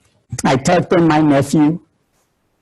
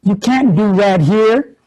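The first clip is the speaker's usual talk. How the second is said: serious warning; 2 semitones higher than usual. Retold or imitated. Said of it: "with this serious look on his face and said".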